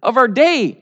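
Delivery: hammed-up smug boasting of the wise; mock boast. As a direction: puff up like a self-satisfied know-it-all. Mocking the worldly wise boasting.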